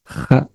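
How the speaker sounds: Kh as a rough throat scrape; harsh kh sound. Shown as a demonstration. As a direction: rasp Kh from the back of the throat. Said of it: "So it's a harsh".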